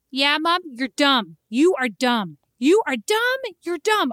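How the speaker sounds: mock little boy chanting insults; child taunting. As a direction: tease like a cheeky four-year-old. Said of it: "I said, "Time to go to bed".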